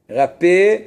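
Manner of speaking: "Rappé" said with a clear é at the end and a slight rise; vowel e in rappé. Shown as a demonstration. Teacher sounds out "Rappé" for his class, stressing the é. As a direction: sound out "Rappé" and lean on the final é. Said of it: "c'est le e".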